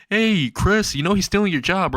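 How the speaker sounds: high-pitched acted call. A narrator's reading. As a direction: rouse a sleeper with a pointed tease. Calling to wake sleeping Chris.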